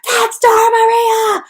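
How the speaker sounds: high, loud, slow drawn-out shout of a name; excited scream. Retold or imitated. Friends meeting in person, screaming a name in delight. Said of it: "you start screaming".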